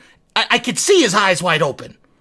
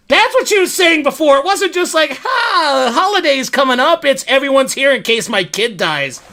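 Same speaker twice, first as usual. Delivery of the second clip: appalled outburst; 5 semitones higher than usual. Retold or imitated. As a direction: exclaim as the truth dawns, pitched up. Appalled realization, mocking what he assumed.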